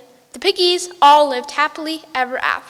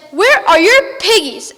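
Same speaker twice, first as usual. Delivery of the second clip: witch demand; 6 semitones higher, 9 dB louder than usual. Acted. Witch demanding piggies from the ducks, high loud witch voice. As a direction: draw it out like a cackling witch.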